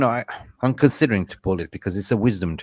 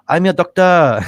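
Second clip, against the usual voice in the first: loud, high mock shout of a furious dentist; mimicking the dentist throwing him out, shouted high; angry dentist; 8 semitones higher, 11 dB louder than usual. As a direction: bark it like an offended dentist. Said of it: "He said".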